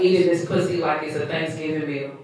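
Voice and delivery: measured spoken-word reading; poem recitation. Acted. Poet reciting own piece to listeners, spoken-word reading.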